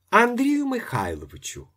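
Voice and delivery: wife yells from the next room; wife shouting. A narrator's reading. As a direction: shout his full name impatiently. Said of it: "закричав жіночий голос з кімнати".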